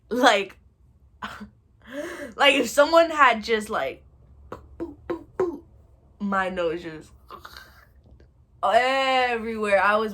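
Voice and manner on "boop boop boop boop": high little boop noises; imitated booping hits. Someone hitting the nose, imitated boop sounds. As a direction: pop out short, high boops.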